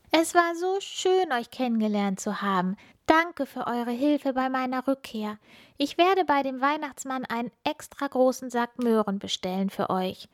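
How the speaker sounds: a bright thank-you in a high voice; little star child. Acted. Funkila saying goodbye to her friends, high and grateful.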